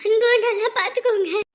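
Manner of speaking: sniffling, choked-up agreement; small sobs between phrases; tearful. Acted. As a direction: answer while still crying. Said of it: "சும்மா அழுதுட்டு இருக்காத".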